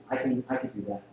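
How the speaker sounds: soft, low audience thought "I can do that"; quiet inner voice. Retold or imitated. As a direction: mutter it to yourself, confident. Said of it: "make people feel".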